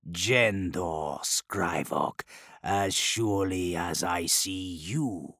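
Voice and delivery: low, slow, hushed demonic voice. Acted. Demon threatens Scrivok.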